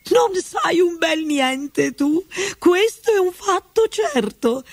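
high, sharp retort; snapping duchess. A narrator's reading. Duchess snaps at Alice, high and scornful. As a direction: put the girl down rudely. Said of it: "ribatté la duchessa".

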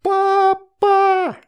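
very high, loud call. A narrator's reading. Astrid calling mom across the yard, very loud and high. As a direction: scream for mom at full volume. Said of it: "заорала ещё громче Астрид".

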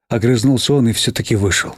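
ordinary delivery, nothing marked

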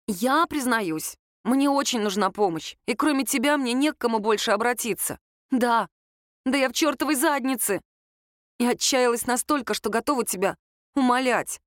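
lightly voiced Lera. Girl admits she needs his help, mildly desperate. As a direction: confess with mild desperation.

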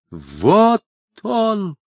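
high piercing scream; shrill terrifying shout. Acted. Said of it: "закричал папаша пронзительно страшным голосом".

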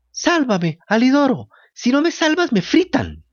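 small, high puppet voice pleading; a desperate little cry for help; tiny weak voice. A narrator's reading. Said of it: "una vocecita, muy débil".

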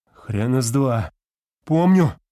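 медленно, потом резко выше и громче на «Помню»; дерзкий вызов; упрямое восклицание. A narrator's reading. Профессор упрямо отказывается. (профессор дерзко отвечает незнакомцу громким вызовом)

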